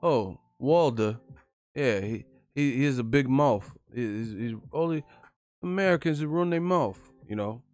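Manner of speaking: a hint of a dismissive boxer brushing it off; Anthony Joshua impression. Mocking Anthony Joshua dodging a fight, a lightly voiced dismissive tone. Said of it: "that's kinda what Anthony Joshua did".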